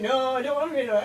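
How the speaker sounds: rushed, blubbering fake sob voice; fast fake crying whine. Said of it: "I like talking like that".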